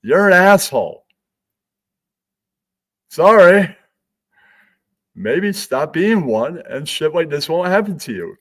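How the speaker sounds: snarky dig. Retold or imitated. One gay person scolds another for being rude. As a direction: tell him off with a smirk. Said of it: "It's like".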